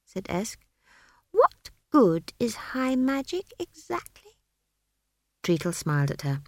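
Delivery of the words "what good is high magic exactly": put-on slow, high child voice, rising at the end; high, measured scepticism; pointed question. A narrator's reading. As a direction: challenge him word by deliberate word. Esk challenges the wizard.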